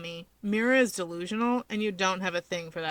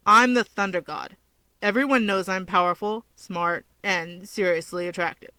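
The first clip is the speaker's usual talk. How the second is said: mock boast; 4 dB louder than usual. Boasting of himself.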